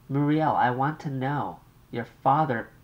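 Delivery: an anxious mother on the line. Acted.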